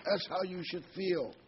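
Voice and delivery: high whisper of the devil. Retold or imitated. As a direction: breathe it like a sly tempter. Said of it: "And the devil says".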